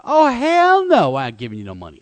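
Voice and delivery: hammed-up indignant refusal; mock angry monkey. Mad monkey voiced refusing.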